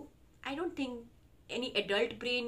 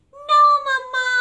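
put-on kids shouting; 13 semitones higher, 17 dB louder than usual. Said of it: "kids will shout".

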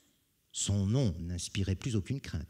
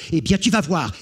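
threat; 8 semitones higher, 9 dB louder than usual. Acted. Brigand threatens.

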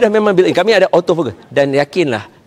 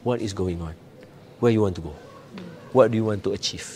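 calm gentle questions; 5 semitones lower, 9 dB quieter than usual. Shown as a demonstration. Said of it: "Tanya dia".

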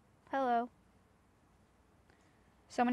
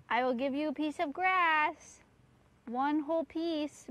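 slow coaxing; 4 semitones higher, slower than usual. Real, not acted. Bribing Beetle with grass.

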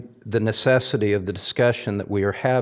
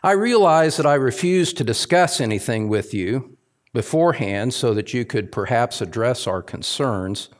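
reading a satirical letter. Acted. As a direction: read the letter as a lightly mocked aggrieved congregant. Reads a satirical complaint letter.

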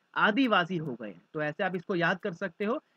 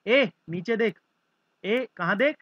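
mock quarrel; 5 dB louder than usual. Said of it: "एक लड़की कहती है दूसरी वाली को".

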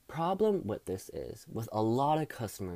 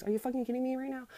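exasperated shriek; 11 semitones higher, much faster than usual. Acted. Exasperated outburst at customers.

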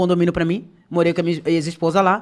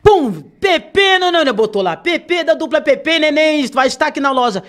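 announcer hype; 6 semitones higher than usual. Retold or imitated. Announcing her at the shop.

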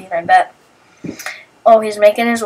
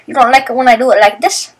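teasing; 2 semitones higher, faster than usual. Retold or imitated. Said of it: "Now I'm doing it again 'cause I'm annoying".

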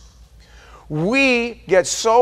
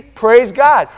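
loud, high burst of praise; approving exclamation; 4 semitones higher, 7 dB louder than usual. Acted. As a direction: cheer it out to the congregation. Cheers each version someone reads.

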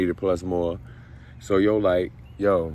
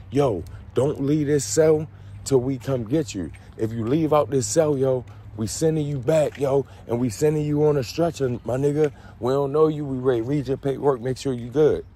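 higher, pushy inmate warning; mock threat; 6 semitones higher than usual. Inmates warning the newcomer to stay put, mock menacing. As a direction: lean on the new guy like a hard-nosed crew.

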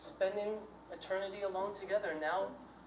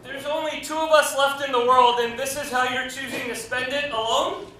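higher, loud appeal rising at the end; pleading disbelief; 3 semitones higher, 5 dB louder than usual. Acted. Man challenging partner's choice to be alone, incredulous plea. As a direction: protest in a raised voice, ending on a question.

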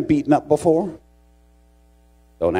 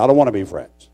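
retold refusal; 3 semitones lower, 3 dB louder, faster than usual. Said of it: "I said".

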